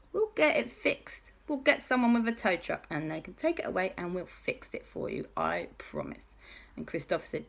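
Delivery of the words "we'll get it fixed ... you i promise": softening to a hush; reassuring. Acted. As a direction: comfort a sad friend gently. Alexander comforts JB.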